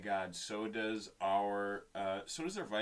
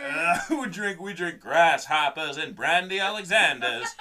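mock posh accent; 7 semitones higher, 14 dB louder than usual. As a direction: ham up a snooty cocktail-set accent. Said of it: "that was a good accent".

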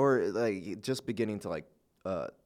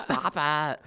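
stern hushed plea; 6 semitones higher, 4 dB louder than usual. Retold or imitated. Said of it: "It would just be like".

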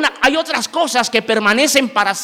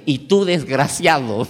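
slow, lower imitated demonic address; lightly voiced possessed girl; 5 semitones lower than usual. Possessed girl turns on the young pastor, imitated slow menace. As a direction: draw out the insult, lightly possessed. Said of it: "la endemoniada, y me dice".

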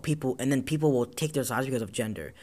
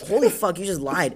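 retold outrage, higher and louder; shocked disbelief; 5 semitones higher, 4 dB louder than usual. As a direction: blurt it out in stunned anger. Retold shock at classmate's lie.

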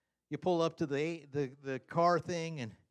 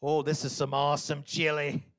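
sarcastic; 6 dB louder than usual. Retold or imitated. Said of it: "they knew that I was being sarcastic".

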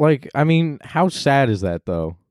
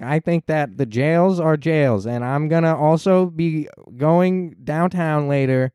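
mock Kamala; 3 semitones higher, slower than usual. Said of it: "And she's like".

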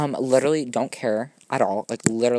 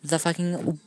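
higher and louder, a put-on voice mocking the old-timey book; mock audiobook narrator; 6 semitones higher, 4 dB louder than usual. Mocking Stephen King's It audiobook, louder put-on voice. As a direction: ham up the author's dusty prose. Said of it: "he's like".

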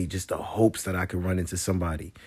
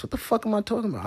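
squeaky self-mock; faster than usual. Real, not acted. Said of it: "I'm definitely smacked right now".

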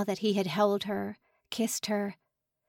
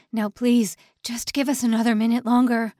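desperate pleading; 3 semitones higher, 7 dB louder than usual. Acted. Simon begs for more time.

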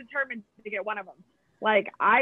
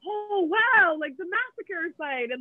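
mock awestruck tourist, pitched up; retold amazement; 6 semitones higher, slower than usual. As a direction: gush like a wide-eyed sightseer. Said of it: "in amazement".

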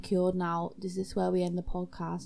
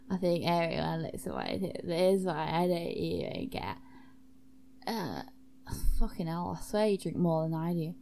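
lightly put-on low voice; low-voiced, unimpressed host; jaded host character; 5 semitones lower than usual.

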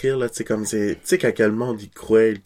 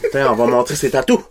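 laughing; 2 semitones higher than usual. Real, not acted. Joking while laughing.

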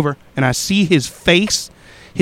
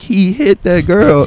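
exhausted repeat; 4 semitones higher, slower than usual. Retold or imitated. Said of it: "And I'm like".

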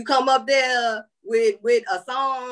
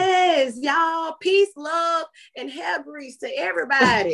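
excited sign-off; 8 semitones higher than usual. Real, not acted.

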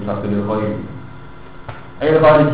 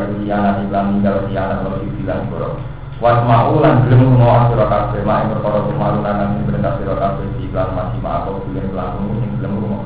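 kitab recitation; 2 semitones lower than usual. Acted. Kitab reading with translation.

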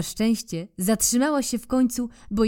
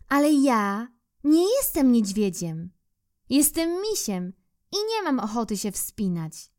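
little bear; 5 semitones higher than usual. Acted. Bear voiced in story.

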